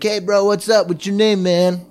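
lightly voiced broey loudmouth; mock an over-friendly drunk bro; obnoxious bro. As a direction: imitate a pushy bro greeting. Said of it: "so intensely obnoxious".

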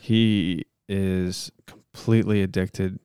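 measured, solemn monotone plea; earnest-sounding improvised prayer; mock prayer. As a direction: pray aloud with halting mock sincerity.

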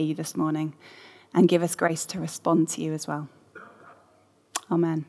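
hushed leading of a short prayer. Acted. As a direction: pray aloud for the gathered church. Leads the congregation in prayer.

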